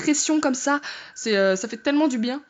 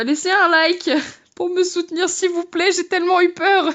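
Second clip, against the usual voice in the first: higher, louder plea to viewers; playful pleading; 5 semitones higher, 4 dB louder than usual. Real, not acted. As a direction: beg with exaggerated distress. Begs viewers for a like.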